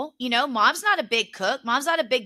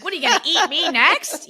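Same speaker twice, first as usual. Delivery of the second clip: higher, laughing through a mock alarmed question; 6 semitones higher, 4 dB louder than usual. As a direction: tease grandma half-laughing. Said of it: "I'm like".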